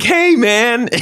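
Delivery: high, bright put-on hey man; mock friendly greeting. To the guest, awkwardly chummy greeting in a high voice. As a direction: greet him like an old buddy, too eagerly. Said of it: "I'm like".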